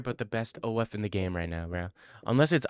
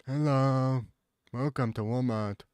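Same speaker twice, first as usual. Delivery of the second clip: greeter voice. Retold or imitated. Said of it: "the guy who sits at the front and says".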